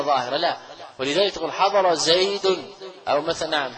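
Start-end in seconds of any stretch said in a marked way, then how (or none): 1.5-2.6 slow dictation. Shown as a demonstration. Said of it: "teacher dictates example sentence".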